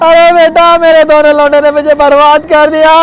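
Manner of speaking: theatrical crying complaint; tearful lament. Acted. Old man blaming his two sons, tearful. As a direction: wail the complaint through mock tears. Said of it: "अब तुम रो मत".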